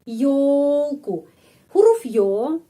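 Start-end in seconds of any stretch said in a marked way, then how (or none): 0.0-1.2 Ёлку louder, stress on ё as yo; Ёлку with a clear yo; louder demo. Shown as a demonstration. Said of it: "menjadi ёлку". (Ёлку keras, ё dibaca yo)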